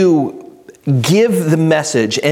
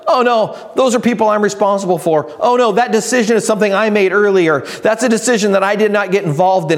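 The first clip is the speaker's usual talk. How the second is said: sudden realization; 4 semitones higher, faster than usual. Retold or imitated. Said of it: "all of a sudden you realize".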